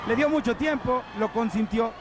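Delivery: rising excited play-by-play; wrestling commentator. Real, not acted. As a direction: hype up the coming dive. Commentator builds to high-flying move.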